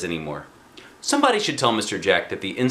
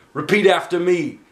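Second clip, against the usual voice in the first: higher, louder teacherly cue; instructor's call; 9 semitones higher, 5 dB louder than usual. A narrator's reading. Mister Jack telling the class to repeat, teacherly. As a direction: lead the class in.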